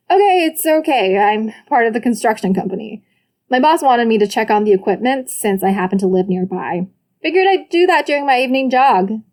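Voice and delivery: hasty excuse. Acted. Brother talks his way out.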